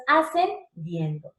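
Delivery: ASCENDIENDO slow and drawn out in two parts; rising demonstration. Shown as a demonstration. Teacher naming the rising tune, slow ASCENDIENDO. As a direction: stretch ASCENDIENDO syllable by syllable. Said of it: "Mira cómo va subiendo".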